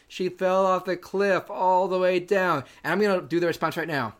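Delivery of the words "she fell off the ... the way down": slow, flat mock father; mock dad. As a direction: drag out the bad line. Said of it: "He goes".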